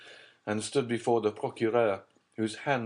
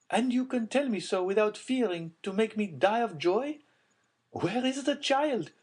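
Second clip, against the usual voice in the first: high mother voice; 12 semitones higher than usual. A narrator's reading. Mother demanding her child.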